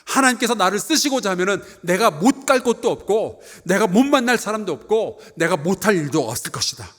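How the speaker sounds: ordinary talk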